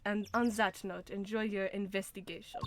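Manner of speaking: put-on German accent with "zat" for that; badly faked German accent. Prosecutor wishing them a good investigation, light German accent. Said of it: "how to do a German accent".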